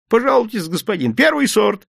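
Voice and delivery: high, bright hawker's patter; cheerful sales pitch. A narrator's reading. Vendor cheerfully pitches oranges to a gentleman. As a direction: sell it gladly. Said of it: "весело заговорил".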